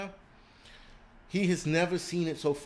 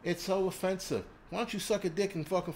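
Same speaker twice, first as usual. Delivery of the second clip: higher, whiny mock of a prim viewer; prissy complainer; 6 semitones higher than usual. Mocking viewers who asked him to stop cursing, higher and whiny. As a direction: mimic the offended viewer with a sneer. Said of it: "people were like".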